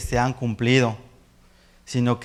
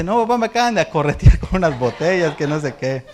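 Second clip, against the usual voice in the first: higher, a hint of fright; shaken son; 4 semitones higher, 4 dB louder than usual. Son telling dad he was chased, mildly shaken. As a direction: report being chased, breathless.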